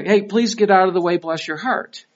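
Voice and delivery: the same request sugared with Southern sauce; polite Southern version. Retold or imitated. Southerner politely asking someone to move, sweetened. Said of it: "now they say down here".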